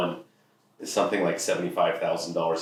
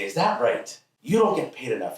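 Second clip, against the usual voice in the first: higher-pitched mock-incredulous father; challenging dad; 6 semitones higher than usual. Dad answering teen's pay complaint, lightly mock-incredulous. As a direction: echo the complaint back in disbelief.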